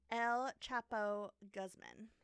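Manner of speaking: slow Spanish name in a white American accent; very white-sounding Anglo pronunciation. Real, not acted. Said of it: "You sound so white when you said that".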